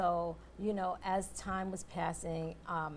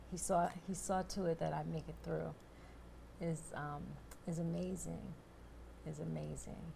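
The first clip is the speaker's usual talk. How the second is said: moved, softer toward the end; real emotion; 6 dB quieter than usual. Real, not acted. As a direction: quietly overcome with gratitude, with pauses. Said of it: "getting so emotional right now".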